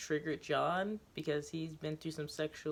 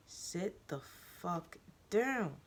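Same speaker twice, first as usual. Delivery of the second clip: scream; 5 semitones higher, slower than usual. Acted. The teacher screaming at the student. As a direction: rage at her. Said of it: "I scream".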